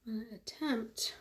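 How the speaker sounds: soft unvoiced whisper to herself; hushed murmur to herself. Real, not acted. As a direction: whisper it under your breath while concentrating. Whispering aside while doing makeup.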